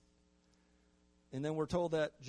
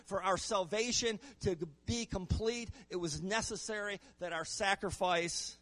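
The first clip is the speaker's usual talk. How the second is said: raised, higher-pitched preacher's delivery; emphatic preaching; 7 semitones higher, 5 dB louder than usual. Real, not acted. Preacher underscoring Luke's point to the congregation, emphatic preaching. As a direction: press the point home from the pulpit.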